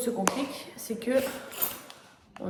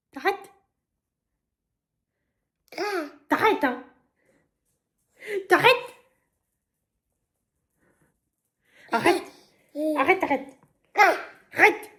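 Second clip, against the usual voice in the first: high, loud, giggly stop it; playfully scolding through laughter; laughing protest; 6 semitones higher, 6 dB louder than usual. Real, not acted. Mother telling her baby to stop, laughing, high and loud.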